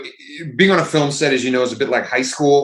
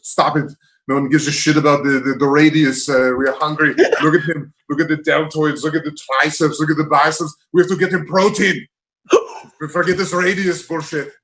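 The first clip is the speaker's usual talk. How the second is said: Arnold impression. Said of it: "He goes".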